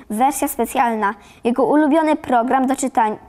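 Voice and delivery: usual speaking voice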